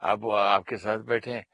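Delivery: a hint of surprise; neighbour asking. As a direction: raise the pitch as a curious neighbour. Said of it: "बोले".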